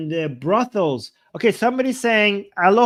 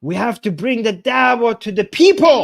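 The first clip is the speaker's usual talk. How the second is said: louder and higher, rising toward PEOPLE; mock rallying cry; 4 semitones higher, 5 dB louder than usual. Streamer translating a preacher's speech for viewers, mock rallying cry. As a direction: echo a preacher's fervent call.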